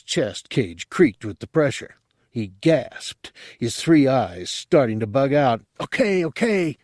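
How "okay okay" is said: higher, panicky okays. Acted. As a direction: give in fast, frightened. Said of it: "he said in panic".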